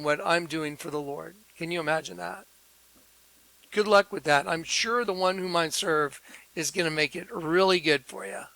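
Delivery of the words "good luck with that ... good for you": dry sarcasm, trailing off; mean the opposite of every word; sarcastic. Real, not acted. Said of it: "I'm being really sarcastic".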